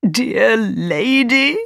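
slow, high, drawn-out appeal; pleading old man. Acted. Old man kneels before the mother, pleading. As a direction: stretch it out imploringly. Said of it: "he suddenly began to cry".

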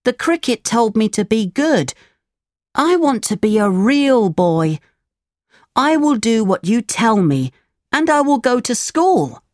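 put-on high, childlike puppet making a promise; high-pitched, well-meaning storybook puppet; repentant puppet. A narrator's reading. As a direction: promise earnestly in a high little voice. Voices repentant puppet Pinocchio.

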